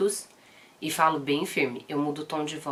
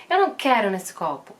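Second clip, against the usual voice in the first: a touch higher and louder, imitating a fussy little girl; light mock of a stubborn toddler; whiny toddler; 4 semitones higher, 5 dB louder than usual. Mother imitating daughter rejecting the cup, mildly whiny.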